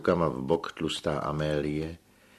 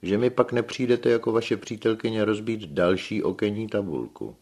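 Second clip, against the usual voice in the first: Filoxen's voice; 6 semitones higher, 5 dB louder than usual. A narrator's reading. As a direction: stretch it out, loud and high. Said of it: "dodal Filoxen". (vysoký, hlasitý stařecký hlas)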